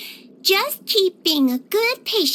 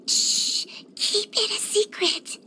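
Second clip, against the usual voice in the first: hushed secret; 2 semitones higher, 4 dB quieter, slower than usual. Acted. Conspiratorial hush about leaving.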